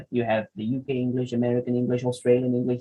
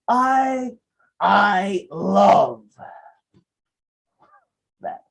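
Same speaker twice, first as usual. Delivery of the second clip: flat mismatch; 6 semitones higher, 4 dB louder, much slower than usual. Shown as a demonstration. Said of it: "If you do the opposite".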